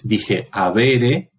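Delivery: "avere" said very slowly with the stress on the middle syllable; slow stressed word. Shown as a demonstration. Teacher contrasting a stressed Latin verb with the next one. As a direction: lean on the penult of "avere". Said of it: "una palabra grave".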